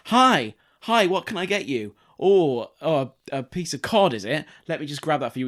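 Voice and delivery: sing-song customer service patter; chirpy shop server. Retold or imitated. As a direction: play the overeager chip shop worker.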